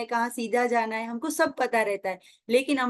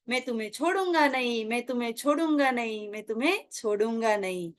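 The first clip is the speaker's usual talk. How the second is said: fading echo. Retold or imitated. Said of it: "आवाज क्या आती है".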